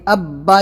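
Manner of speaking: "اب با" pronounced with a firm double b; firm tashdid. Shown as a demonstration. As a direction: bear down on both b sounds in "اب با". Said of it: "یہ سختی سے ہوگا".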